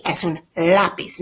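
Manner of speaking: "lápiz" stressed on the first syllable. Shown as a demonstration. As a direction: lean on the LÁ in "lápiz". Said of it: "it's a accent on the A".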